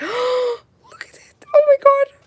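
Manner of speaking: voice shooting way up.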